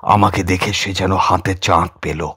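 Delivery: ordinary delivery, nothing marked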